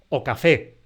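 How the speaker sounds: "o café" ligado, la "o" átona pegada a "café"; o café como una palabra. Shown as a demonstration. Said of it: "como si eso fuera una sola palabra". ("o café" pronunciado como una sola palabra, sin acento en la "o")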